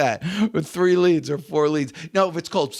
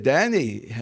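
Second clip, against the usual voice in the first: put-on light French Jewish accent on a name; 3 semitones lower than usual. Father addresses his son Danny, light French Jewish accent. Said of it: "in his little French Jewish accent".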